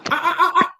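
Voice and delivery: high burst of laughter; laughing. Real, not acted. Host laughing at her own question to the panel, high laughter. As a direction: laugh at the tickling headline.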